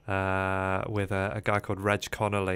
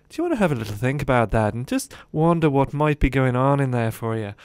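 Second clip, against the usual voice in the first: put-on Reg's Irish accent; 4 semitones higher, 7 dB louder, faster than usual. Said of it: "little Irish accent".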